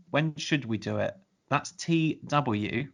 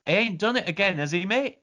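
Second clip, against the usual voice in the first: lightly put-on Manchester accent, a touch higher; mock Manc dog owner, half-hearted; 6 semitones higher than usual. Reading out a listener's email, owner in a mild Manc accent. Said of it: "would always say in a Manc accent".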